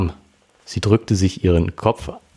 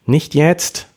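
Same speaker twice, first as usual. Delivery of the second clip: heftig anfahrend; 8 semitones higher than usual. Acted. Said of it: "fuhr sie ihn daher heftig an".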